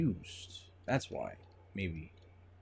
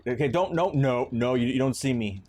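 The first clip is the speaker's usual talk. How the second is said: loud pleading; 4 semitones higher, 6 dB louder than usual. Real, not acted. Pleading loudly with enemy.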